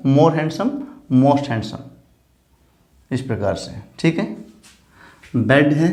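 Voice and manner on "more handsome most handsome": slow listing. Shown as a demonstration. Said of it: "most beautiful".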